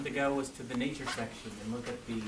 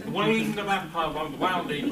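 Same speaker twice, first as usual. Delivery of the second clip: pretend drowning; 3 semitones higher, 5 dB louder, slower than usual. Shown as a demonstration. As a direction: act out drowning. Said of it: "pretend you're drowning".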